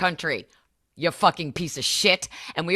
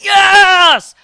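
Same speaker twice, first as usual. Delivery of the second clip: much higher, shouted yes; crowd cheer; 15 dB louder than usual. Retold or imitated. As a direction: yell it like an eager rally crowd. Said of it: "And Maga's like".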